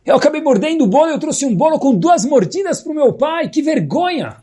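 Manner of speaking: put-on a boy ashamed of bringing the bitten cake; high-pitched mock-ashamed boy's voice. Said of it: "abaixa a cabeça com vergonha e fala".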